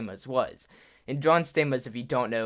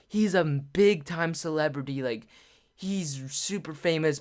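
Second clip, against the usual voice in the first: higher-pitched imitation of starstruck insistence; mildly freaking out; 4 semitones higher than usual. Mom explains who the celebrity is, excitedly. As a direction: stress how famous he is, mock starstruck. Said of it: "like, freaking out".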